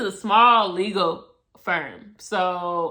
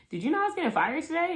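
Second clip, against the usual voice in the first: breezy disbelief; 7 semitones higher, much faster than usual. Retold or imitated. Retold question, fast and high.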